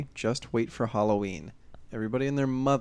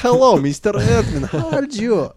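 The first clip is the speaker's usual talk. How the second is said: high, slow, plummy British greeting; posh British accent; 9 semitones higher, 10 dB louder, slower than usual. Acted. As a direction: greet him like an English gentleman. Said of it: "switching accents all night".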